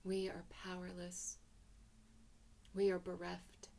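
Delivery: hushed, breathy whisper of despair. A narrator's reading. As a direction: whisper it as if all hope is gone. Despair in a cosmic monologue.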